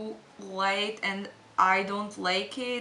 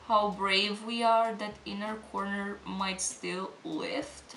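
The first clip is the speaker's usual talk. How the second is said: slow motion. Real, not acted. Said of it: "I'm literally talking in slow motion".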